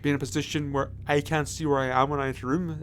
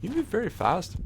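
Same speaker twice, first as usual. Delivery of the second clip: excited; 4 semitones higher than usual. Real, not acted. Excited about new controls.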